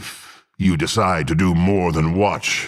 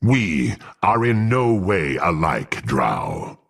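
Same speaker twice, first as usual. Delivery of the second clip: angry; slower than usual. Acted. Angry retort to drow.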